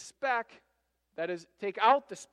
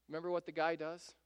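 ordinary talk

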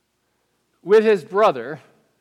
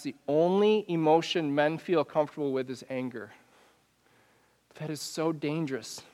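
ordinary talk

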